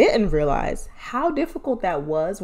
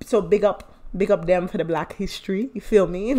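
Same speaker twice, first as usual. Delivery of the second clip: put-on playful half-hearted Caribbean accent; hint of a Caribbean accent; mock Caribbean accent. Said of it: "I don't know what accent that is".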